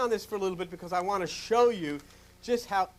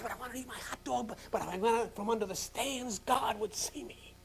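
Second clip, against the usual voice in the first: mock child fretting; 4 semitones higher, 5 dB quieter than usual. Child self voiced hiding.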